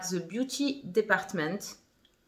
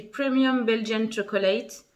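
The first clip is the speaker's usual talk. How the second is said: French-accented English; slower than usual. Real, not acted. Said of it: "Désolée pour mon accent pourri".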